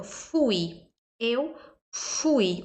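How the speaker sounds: "fui" with a long airy F; "fui" opening on a stretched lip-blown F; F with pursed lips. Shown as a demonstration. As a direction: blow the F at the start of "fui". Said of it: "O som do F é um biquinho".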